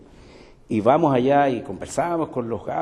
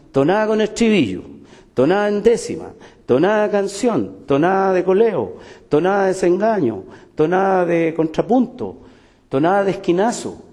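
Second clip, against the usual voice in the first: heated listing; 6 semitones higher, 6 dB louder than usual. Real, not acted. Heated list of tonada forms.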